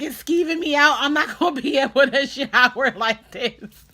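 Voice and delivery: high, loud whiny wail; grossed-out panic. Retold or imitated. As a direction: re-enact a disgusted freak-out to the nurse. Grossed out, complaining to nurse.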